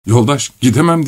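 mildly plaintive plea; moaning. Acted. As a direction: plead with a slight moan. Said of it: "diye inledi Korotkov". (hafifçe inleyerek)

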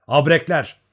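urgent one-word yell; shout through gritted teeth. A narrator's reading. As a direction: shout the alarm, teeth clenched. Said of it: "diye bağırdı dişlerini sıkarak".

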